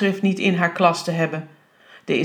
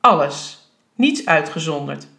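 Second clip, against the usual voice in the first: "alles" set apart firmly after a pause; emphatic; 3 semitones lower than usual. A narrator's reading. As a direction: land "alles" as a final, falling ruling. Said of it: "de inspecteur zei nadrukkelijk".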